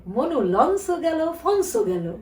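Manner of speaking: Barisal dialect. Retold or imitated. Guest quotes a favourite saying to the host, in Barisal dialect. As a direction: imitate a drawn-out Barisal catchphrase. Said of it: "তখন বরিশালের ভাষায় কথা বলে".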